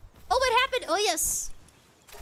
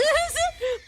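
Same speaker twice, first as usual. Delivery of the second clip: laugh; 11 semitones higher than usual. Real, not acted. Laughs after losing her place.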